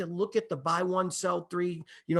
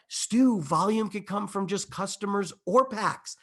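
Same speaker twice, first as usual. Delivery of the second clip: raised, punchy attack, then easing off; imitating Kevin; 3 semitones higher than usual. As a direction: quote a colleague with emphatic enthusiasm. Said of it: "I just started sounding like you".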